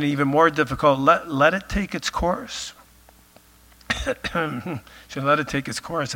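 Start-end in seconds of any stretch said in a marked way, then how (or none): 5.1-6.1 losing his voice, rough; hoarse voice. Real, not acted. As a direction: voice going hoarse. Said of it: "I'm losing my voice".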